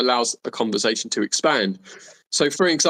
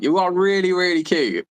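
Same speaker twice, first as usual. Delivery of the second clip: translate app voice; 8 semitones higher than usual. Retold or imitated. Mimicking Google Translate voice.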